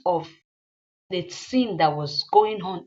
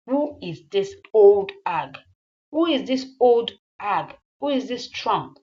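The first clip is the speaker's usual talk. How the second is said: loud, accusing demand; angry confrontation; 5 dB louder than usual. Acted. Jealous woman confronting her man over his guest, loud and accusing. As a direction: demand an answer with contempt.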